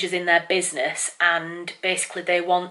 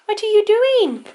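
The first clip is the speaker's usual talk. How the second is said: slower, higher cooing pet talk; silly cat voice; 5 dB louder than usual. Real, not acted. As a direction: stretch the question out, cooing. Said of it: "silly cat voice".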